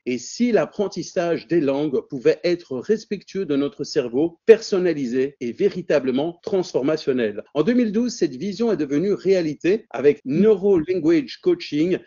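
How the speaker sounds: measured, ceremonious speaker introduction; formal introduction read. Acted. Host introducing the guest to the webinar audience, formal read. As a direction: present the guest like a formal tribute.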